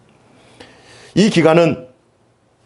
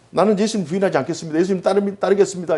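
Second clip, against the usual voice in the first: heated insistence; 5 semitones higher, faster than usual. Retold or imitated. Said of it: "막 강조하잖아요. 열을 내서 얘기하잖아요".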